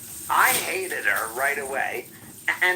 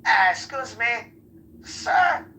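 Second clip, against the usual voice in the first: high, hammed-up Hispanic accent; mock Hispanic accent, pitched way up; 12 semitones higher, 3 dB louder, slower than usual. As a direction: try a silly high Hispanic voice. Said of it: "can you do a Hispanic a-, accent".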